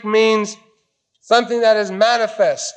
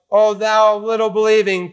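gentle rebuke. Retold or imitated. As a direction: tell him gently, not cutting. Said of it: "not cuttingly, not sarcastically, not bitingly".

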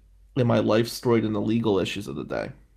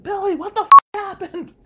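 much higher imitated aunt, outraged; aunt on the phone; 9 dB louder than usual. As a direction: squeak out the aunt's panicked question, high up. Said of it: "She's like".

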